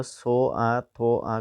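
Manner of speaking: स आ, थ आ said slowly as separate stretched sounds; sound-by-sound spelling. Shown as a demonstration. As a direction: draw out each consonant and vowel of स आ, थ आ. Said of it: "गारांनि रिंसारथिया बबेयाव दङ होनना नायनोसै". (स आ, थ आ लासै गोलावै रिंसार)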